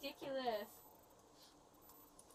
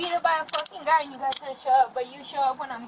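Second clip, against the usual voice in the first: much louder, shouting her grievance over the officer; furious yelling; 17 dB louder than usual. Real, not acted. Beaten woman shouting at the officer who cut in, furious. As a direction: scream it at him.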